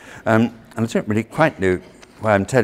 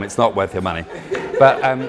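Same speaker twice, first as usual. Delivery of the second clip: laughing; 6 dB louder than usual. Real, not acted. Laughs at own joke.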